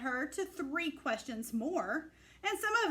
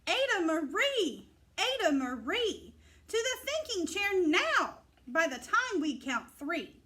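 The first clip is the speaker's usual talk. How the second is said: stern parental scolding, a bit louder; 2 semitones higher, 3 dB louder than usual. Acted. Parents sending Ada to the thinking chair, stern scolding. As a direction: order her to the thinking chair.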